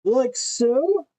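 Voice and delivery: talking through a face mask; muffled behind a respirator. Real, not acted. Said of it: "So if I sound muffled and Darth Vader-y".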